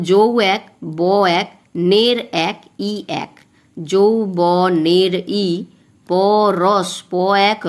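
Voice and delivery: each syllable of যৌবনেরই said alone, then এক; teacher splitting the verse into beats; syllable counting. Shown as a demonstration. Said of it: "কানে যেটা শুনবে সেইভাবে".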